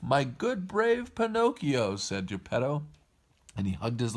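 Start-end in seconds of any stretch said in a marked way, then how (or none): 0.0-2.0 high, slow proud praise; fond praise. A narrator's reading. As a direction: draw it out like a relieved, proud father. Father praises his rescued son.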